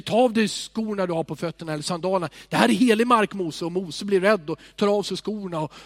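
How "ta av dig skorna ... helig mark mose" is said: voice of God. Retold or imitated. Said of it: "en röst som säger".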